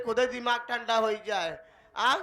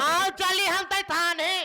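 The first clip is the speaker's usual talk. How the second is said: high, drawn-out urging; slow, insistent high call; urgent urging; 5 semitones higher than usual. Acted. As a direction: press him to come along, voice raised. Urges him to the police.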